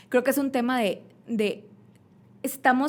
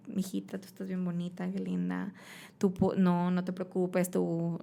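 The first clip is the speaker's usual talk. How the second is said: tender mom; 2 semitones lower, 4 dB quieter, slower than usual. Retold or imitated. A mom consoling her daughter.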